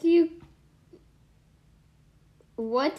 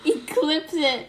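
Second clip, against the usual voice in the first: stifled giggles; slower than usual. Real, not acted. Trying to hold laugh in.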